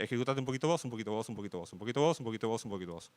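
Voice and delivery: rhythmic mock operating system voice; sing-song OS command. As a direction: tick through the turns like a metronome, trailing off. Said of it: "diciéndole".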